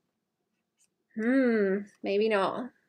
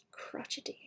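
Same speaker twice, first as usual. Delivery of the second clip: whispering; 20 dB quieter than usual. Real, not acted. Whispered word savoured.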